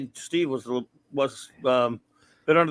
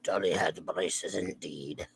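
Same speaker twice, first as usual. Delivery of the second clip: hushed whisper; breathy secret whisper; 10 semitones lower, 11 dB quieter, slower than usual. Acted. Whispered confirmation.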